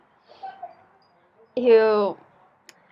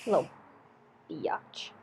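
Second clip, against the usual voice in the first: breathy whispered swear; whispered insult; 5 semitones lower, 13 dB quieter than usual. Real, not acted. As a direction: hiss it under your breath. Muttered insult.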